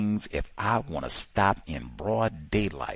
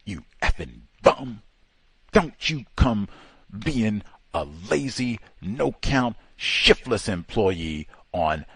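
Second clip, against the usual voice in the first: mock angry yell. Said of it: "and he yells out".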